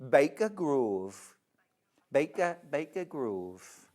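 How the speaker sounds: put-on Baker Grove drawn out in a Geordie accent; slow Geordie attempt. A Geordie accent tried out for the viewers. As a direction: lean slowly into the Geordie vowels. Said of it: "Can I do a Geordie accent".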